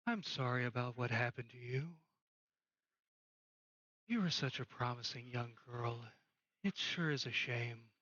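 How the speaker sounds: lightly voiced, sorry old acquaintance; regretful ghost. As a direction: speak low as a sorrowful spirit.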